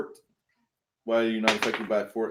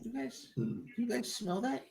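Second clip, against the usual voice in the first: squeaky voice; 11 semitones higher, 11 dB quieter, slower than usual. Acted. GM voices a character.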